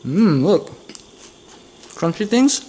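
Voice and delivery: talking while chewing a bite; words around a mouthful of bar; mouth full. Real, not acted. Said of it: "I'll take a bite out of it".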